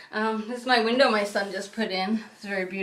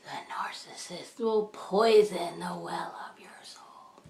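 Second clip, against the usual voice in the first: quoting a preacher; slower than usual. Retold or imitated. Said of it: "And he says stuff like".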